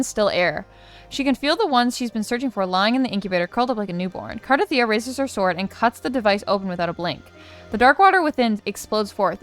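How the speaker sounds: dramatic read-aloud, stresses lifted on key words; story narration. Acted. Reads quest story text aloud.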